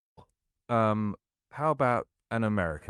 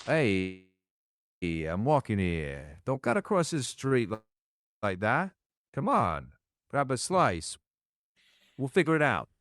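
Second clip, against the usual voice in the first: lightly put-on New York accent; New York vibe. Shown as a demonstration. AI voice tries New York accent on request, lightly done. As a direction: play at a New Yorker, with a light touch. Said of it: "in a New York vibe".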